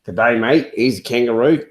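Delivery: a light, mock Australian twang on "mate"; Australian accent. Dad reads the comic cover to his daughter in a light Australian accent. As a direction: play the Aussie bloke in a hint of Australian accent. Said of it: "She likes it in his Australian accent".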